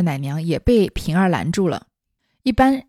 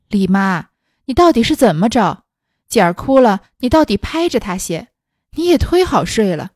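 calls across the room, a little louder; calling out; 4 dB louder than usual. Acted. Ping'er calling across the room to the dozing nurse, raised voice. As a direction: raise the voice to wake the sleeping nurse. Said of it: "平儿连向那边叫道".

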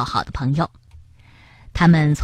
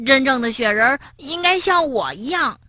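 firm counter-claim; stubborn frog; 5 semitones higher than usual. Acted. Frog stubbornly contradicting the rabbit. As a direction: insist right back.

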